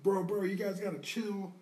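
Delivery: high-pitched put-on bystander voice; imitated pleading peacemaker. Bystander pulling fighters apart in the retelling, pleading.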